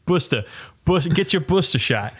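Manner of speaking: playful mock Boston, R dropped in "booster"; Boston accent. Shown as a demonstration. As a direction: hawk it like a Bostonian. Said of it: "booster shots in Boston are spelled".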